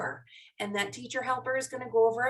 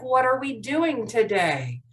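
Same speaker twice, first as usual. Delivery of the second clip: slower, deliberate question; slowed down; 3 dB louder than usual. Shown as a demonstration. Teacher repeats the important question, slowing down. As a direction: give each word more room. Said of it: "I'll try to slow down".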